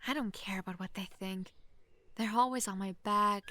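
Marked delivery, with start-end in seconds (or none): 0.1-1.5 whispered, defiant aside. Acted. Princess confides in a stranger, whispered defiance. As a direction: breathe it like a secret rebellion. Confiding about her family.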